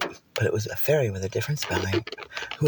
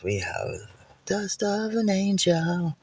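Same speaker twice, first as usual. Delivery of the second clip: mock boast; 9 semitones higher, much slower than usual. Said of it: "they go".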